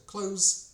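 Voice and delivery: "clothes" without th, just cloze; simple CLOTHES. Shown as a demonstration. Teacher giving the easy fallback, "clothes" as cloze. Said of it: "можемо сказати просто".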